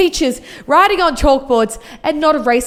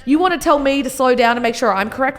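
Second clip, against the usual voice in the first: sassy. Real, not acted. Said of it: "getting sassy at a photo".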